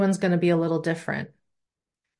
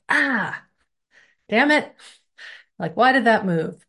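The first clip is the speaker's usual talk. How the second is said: sudden high yelp of pain and annoyance; stubbed-toe outburst; 4 semitones higher than usual. Retold or imitated. Teacher acting out stubbing a toe on the table, high pained yelp. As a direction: blurt it like you just hit your toe.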